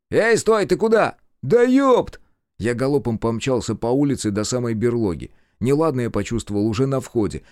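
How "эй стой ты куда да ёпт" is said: high, loud, exasperated shout; high-pitched yelp of exasperation; calling after someone. A narrator's reading. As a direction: yell after a runaway friend. Partner calls after the running hero.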